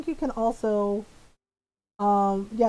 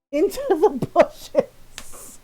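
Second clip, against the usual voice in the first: drawn-out punchline; 4 semitones higher, 5 dB louder, much slower than usual. Retold or imitated. Comic fall, drawn out.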